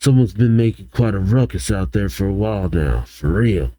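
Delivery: low, easygoing character voice; lightly voiced low, relaxed dude; laid-back guy. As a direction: drop the pitch for a casual apology. Cassius's laid-back lines voiced.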